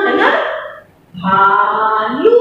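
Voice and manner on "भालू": भालू sung out slowly, ऊ held; भालू, slow long ऊ. Shown as a demonstration. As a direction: draw out भालू with a rising end. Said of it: "ऐसे नहीं बोलना".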